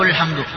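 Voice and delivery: الحمد said with an u vowel at the start, ulḥamdu; the mistake: start الحمد on u; wrong ulḥamdu. Shown as a demonstration. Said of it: "هذا خطأ".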